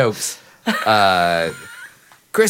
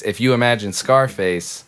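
normal talking voice

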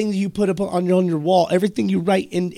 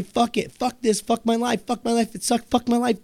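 higher-pitched run of repeated curses; mock cursing spiral; 6 semitones higher than usual. Imitating listeners stuck in negative self-talk, mock cursing spiral. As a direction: rattle off the complaints on a raised pitch.

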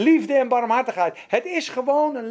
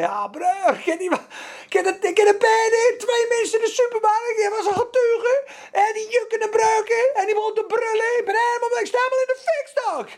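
much higher, breathless excited mimicry with a sob; overexcited believer; 11 semitones higher, faster than usual. Preacher mimics a believer gushing about a supermarket witness, high and teary. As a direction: gush like someone overwhelmed with joy. Imitating an overjoyed churchgoer.

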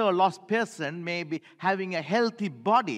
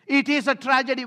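called-out refrain; 4 semitones higher, 4 dB louder than usual. Shown as a demonstration. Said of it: "Everybody say the word tragedy".

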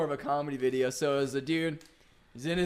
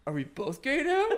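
laughing retold question; 8 semitones higher, 3 dB quieter than usual. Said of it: "and he's like".

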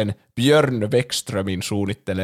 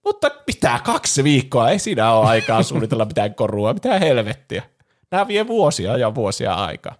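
incredulous protest. Retold or imitated. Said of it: "se Wexström oli silleen".

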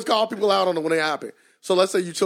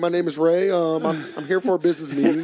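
mock professional tone. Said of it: "professional tone".

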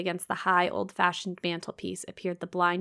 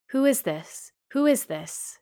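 higher, louder insistent demand; 6 semitones higher, 4 dB louder than usual. A narrator's reading. Blind man demands to know who is there, insistent. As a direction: demand an answer, a touch urgent. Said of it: "he demanded".

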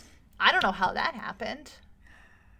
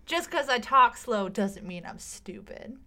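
put-on Southern accent; slower than usual. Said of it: "Southern accent".

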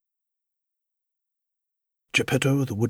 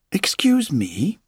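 puppet's first words; 6 semitones higher, 4 dB louder, slower than usual. Acted.

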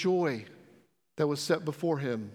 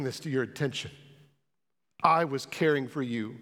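understated, gentle voice of God to the speaker; voicing God's reply; 3 semitones lower, slower than usual. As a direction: answer as God would, calm and assuring. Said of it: "what God says to me".

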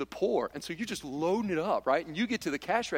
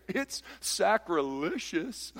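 mock accusation; 2 semitones higher, much slower than usual. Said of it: "this half over here".

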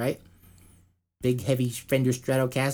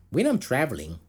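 attempted Minnesota accent. Podcaster reading bassist's quote, attempted Minnesota accent. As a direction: try on a Minnesotan voice. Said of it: "fuck that Minnesota accent".

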